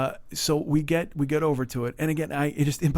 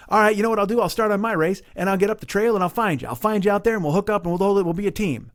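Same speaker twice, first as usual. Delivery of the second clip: eager, raised-pitch pledge; enthusiastic planning; 5 semitones higher than usual. Retold or imitated. Stranger promises to find racers on trail, enthusiastic. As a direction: imitate a keen new teammate laying plans. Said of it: "He's all enthusiastic and inspired".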